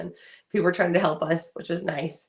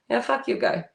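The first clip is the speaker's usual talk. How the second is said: flat straight-faced jab; deadpan; 5 semitones higher than usual. Retold or imitated. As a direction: toss it off deadpan. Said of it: "so deadpan and straight".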